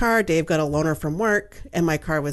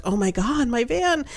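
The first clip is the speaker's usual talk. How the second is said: retold dismay; 5 semitones higher than usual. Dreamer finds her van burned out.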